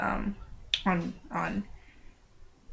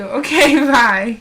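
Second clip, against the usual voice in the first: laughing bye; 3 semitones higher, 10 dB louder, much slower than usual. Real, not acted. Laughing at her sister.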